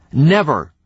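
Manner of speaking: loud, high shouted Never. A narrator's reading. Wife shouting after her leaving husband, a shout. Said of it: "The last word was a shout".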